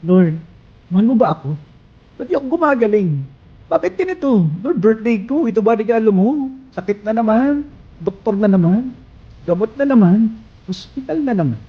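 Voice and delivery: high, pleading, near tears; tearful prayer. Retold or imitated. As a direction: cry out to God, hurt and asking why. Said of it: "Iyak lang sa Panginoon". (umiiyak na panalangin, mataas ang boses)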